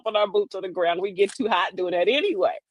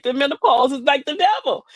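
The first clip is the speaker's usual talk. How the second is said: hammed-up plea to God, voice raised in pitch; mock pleading; 4 semitones higher than usual. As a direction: imitate a woman pleading, pitched higher. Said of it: "she was pleading with God".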